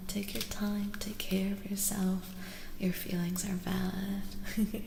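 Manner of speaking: gentle, hushed near-whisper; breathy, intimate tarot-reading voice. Real, not acted.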